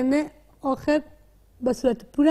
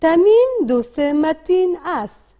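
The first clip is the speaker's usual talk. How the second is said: slow read-aloud model; 2 semitones higher, slower than usual. Shown as a demonstration. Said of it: "با صدای بلند بخوانید".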